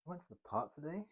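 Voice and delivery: soft, high, rising disbelief on today; questioning tone. Shown as a demonstration. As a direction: lift today up like a doubtful question. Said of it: "Fourth tone".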